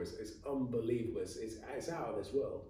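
talking between sips of tea; words around a mouthful of tea; while sipping a drink. Real, not acted. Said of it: "Sorry, I'm just drinking some tea".

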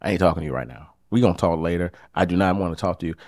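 fast, demanding refusal; demanding and cold. Shown as a demonstration. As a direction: rattle it off like an order. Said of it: "demand something of the person".

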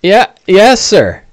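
a prim fellow worried about his face; Bing fussing. Acted. GM voices Bing.

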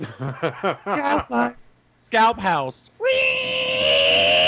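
high excited chant, building to a yell; hype scalper shout. Pretend. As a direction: cheer it like a hyped-up scalper.

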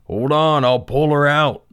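loud, high urgent holler. Acted. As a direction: shout it while charging in. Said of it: "John Henry hollered".

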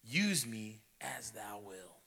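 whispered, slow yielding; low, hushed surrender. A narrator's reading. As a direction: breathe the words out in devotion. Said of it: "His voice came low".

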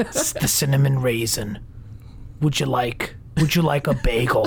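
lightly put-on waitress voice; waitress impression. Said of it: "Does she kinda talk like this?".

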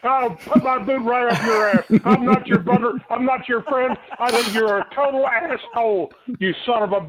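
angry. Real, not acted. Angry caller yelling at prank caller.

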